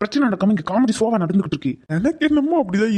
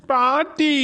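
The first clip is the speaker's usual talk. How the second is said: laughing plea; 5 semitones higher, much slower than usual. Acted.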